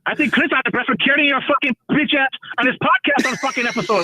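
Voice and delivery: fake Middle Eastern accent. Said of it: "carry a bullshit accent".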